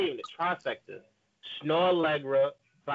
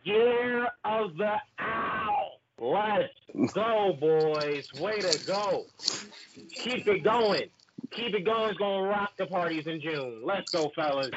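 hype man; 4 semitones higher, slower than usual. Acted. Hype chanting for the group.

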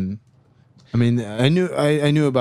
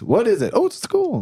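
mock surprise; 12 semitones higher than usual.

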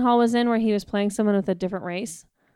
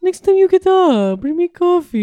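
put-on Persian accent; 2 semitones higher, 5 dB louder, slower than usual. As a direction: Middle Eastern accent, demanding husband. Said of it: "Oh, that's good".

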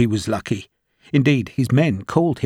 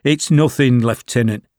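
brushing it off, a touch louder; dismissive; 4 dB louder than usual. Acted. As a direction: wave away the concern. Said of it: "Sharp said dismissively".

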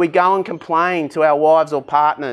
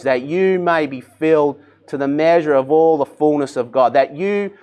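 measured prayerful reading of scripture. Acted. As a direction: pray it over the congregation. Reads scripture prayer in sermon.

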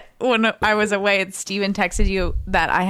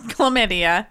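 laughing. Real, not acted. Joke guess while laughing.

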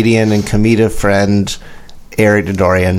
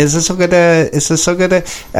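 put-on English accent; 6 semitones higher than usual. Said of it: "I'm not really good at accents".

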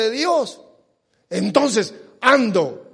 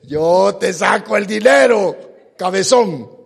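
louder mock shout in a put-on voice; mock shaman's true words; 5 dB louder than usual. Preacher voices what the shaman really means, a mock shout. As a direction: blurt out the con man's real aim. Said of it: "No le dice".

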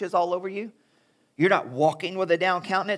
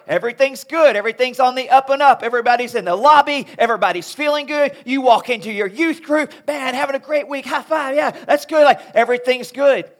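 bright, upbeat greetings, higher and brisk; cheery church small talk; 4 semitones higher, 5 dB louder than usual. Retold or imitated. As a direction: chirp fake-happy hellos in the church lobby. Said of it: "church speak is like".

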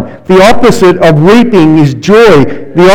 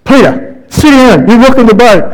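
raised, higher-pitched scold, a hint of a fed-up crewmate; scolding disciple; 6 semitones higher than usual. Disciples telling Peter to sit down, lightly voiced scolding. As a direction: tell Peter off for rocking the boat.

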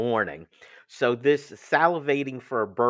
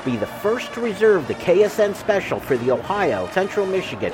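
upbeat sponsor read, a bit louder; 4 dB louder than usual. Acted. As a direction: sell it like a radio spot. Host reads RV sponsor ad.

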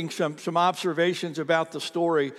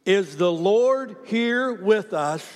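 slow group reading; slower than usual. Shown as a demonstration. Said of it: "Read it out loud with me".

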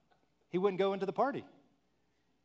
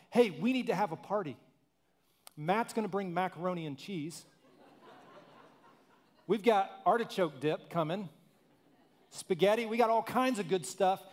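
joyful announcement, slightly louder; yelling out to everyone; 4 semitones higher, 3 dB louder than usual. Retold or imitated. Father calling out to the household, joyful and loud. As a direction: call the whole house to a party. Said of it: "starts yelling out".

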